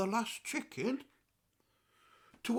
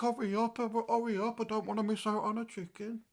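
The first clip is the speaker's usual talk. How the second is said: higher-pitched, quick urging; eager hurrying; 3 semitones higher than usual. Retold or imitated. Grandad rushing his grandson to the chicken, eager hurrying. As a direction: hurry someone along in a raised, quick voice.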